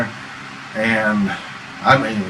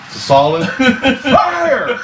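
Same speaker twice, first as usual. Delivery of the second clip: ghost yelling; 10 semitones higher, slower than usual. Retold or imitated. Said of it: "she goes".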